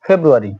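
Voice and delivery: ফেব্রুয়ারি said "feb-roo-ary"; British pronunciation. Shown as a demonstration. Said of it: "উচ্চারণটা হচ্ছে". (শিক্ষকের উচ্চারণে ফেব্রুয়ারি)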